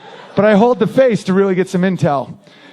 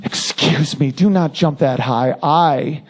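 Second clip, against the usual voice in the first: mock complaint; 6 semitones lower, slower than usual. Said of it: "going up to LeBron James and being like".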